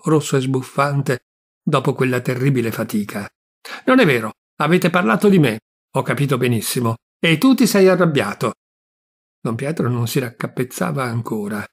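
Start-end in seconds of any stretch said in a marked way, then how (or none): 3.8-8.5 raised, sharp accusing voice; angry accusation. Acted. Niece accuses her uncle of anger, raised and indignant. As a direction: throw the accusation at him.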